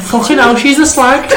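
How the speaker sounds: outraged stranger. Retold or imitated. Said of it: "this woman just turned and went".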